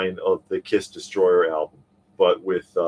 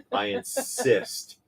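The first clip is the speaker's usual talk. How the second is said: whispering; 5 semitones higher, 4 dB quieter, much slower than usual. Acted. Joking whisper aside.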